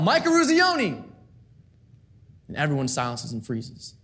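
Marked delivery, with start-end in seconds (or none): 0.0-1.0 high pitched drawn-out shout; shouting his name. Retold or imitated. Exhausted captain shouting his name into the silence, high and slow. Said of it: "he shouts out".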